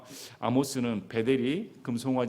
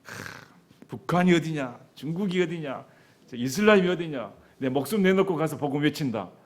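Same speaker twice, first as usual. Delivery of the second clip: resolute vow. Pretend. Congregation imagined vowing to preach anywhere, bold and rising. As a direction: declare it with brave resolve. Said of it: "여러분은".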